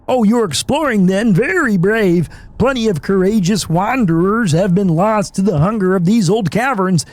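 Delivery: lightly voiced friendly nerd; nerdy game character. Streamer reading a game character's lines aloud. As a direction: read the traveller's lines kindly.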